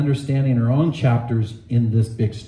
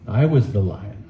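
large voice; 6 semitones lower than usual. Acted. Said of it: "said the large voice".

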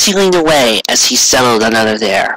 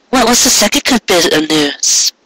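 higher, gently curious; the mare nudging him for more news; 8 semitones higher than usual. Acted. Mare voice asking.

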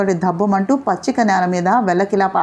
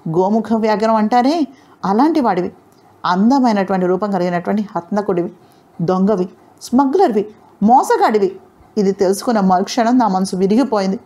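angry outburst. Acted. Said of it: "అవంతికి ఒళ్ళు మండిపోయింది".

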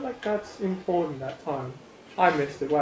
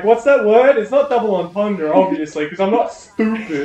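mocking imitation; 4 semitones higher, 8 dB louder than usual. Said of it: "you're like".

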